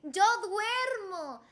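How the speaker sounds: slow, drawn-out model phrase; slow lesson demo. Shown as a demonstration. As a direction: teach it slowly.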